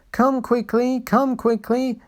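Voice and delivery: high, eager little engine voice; breathless high engine calling; puffed. A narrator's reading. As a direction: puff it out like an excited small engine. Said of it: "he puffed".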